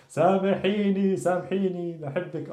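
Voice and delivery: high, drawn-out plea for forgiveness; emotional pleading. Shown as a demonstration. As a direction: beg your lady with hammed-up emotion. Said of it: "Add some emotion to what I'm telling you".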